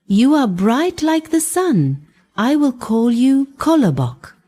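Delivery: a grandmother delighted with her bun; smiling old woman. Acted. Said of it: "The old woman smiled and said".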